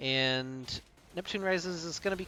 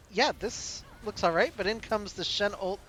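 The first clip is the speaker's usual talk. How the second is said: higher, urgent play-by-play; rising hype; 5 semitones higher than usual. Real, not acted. Caster calling the Shen ult teamfight, higher and building. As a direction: call the fight as it kicks off. Teamfight breaks out, live call.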